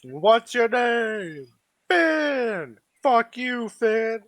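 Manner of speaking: high mock creature voice. Players mock a creature's shout.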